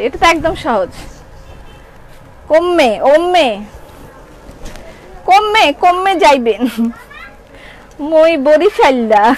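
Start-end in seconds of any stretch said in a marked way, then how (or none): 2.5-9.3 drawn-out Barishali speech; Barisal dialect. Shown as a demonstration. Seller proving to viewers she speaks Barishali, in Barisal dialect. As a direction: show off Barisal dialect, words stretched slowly. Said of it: "বরিশালের ভাষা বলতে পারি".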